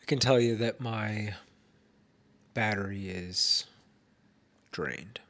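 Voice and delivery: talking through a blocked nose; stuffy, congested voice; stuffed up nose. Real, not acted. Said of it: "Sorry if I sound super stuffed up".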